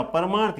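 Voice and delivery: परमार्थ with weight on the long मा; stress on long vowel. Shown as a demonstration. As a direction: lean on मा in परमार्थ. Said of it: "वहीं पर ज्यादा जोर दिया जा रहा है".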